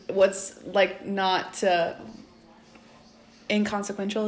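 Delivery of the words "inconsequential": inconsequential said softly as an unsure question. Real, not acted. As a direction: trail off softer on inconsequential, rising doubtfully. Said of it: "Is that a word?".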